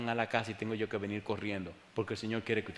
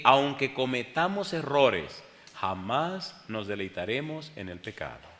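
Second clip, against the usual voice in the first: slow, earnest invitation; altar call; slower than usual. Real, not acted. Preacher inviting listeners to give their lives, slow. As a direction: draw them in slowly and earnestly.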